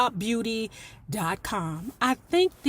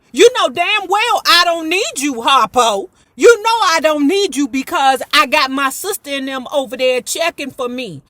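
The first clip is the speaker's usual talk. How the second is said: louder, building fury at Harpo; angry Sophia; 3 semitones higher, 5 dB louder than usual. Retold or imitated. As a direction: chew him out. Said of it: "voicing Sophia's anger at Harpo".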